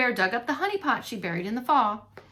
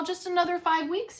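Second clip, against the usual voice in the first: sleepy grumble; 8 semitones higher than usual. Acted. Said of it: "shrugged her away".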